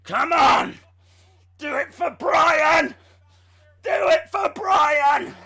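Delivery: loud, slow, strained cries; self-coaching shout. Pretend. Streamer shouts a mantra at himself while lifting. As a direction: urge yourself on through the lift.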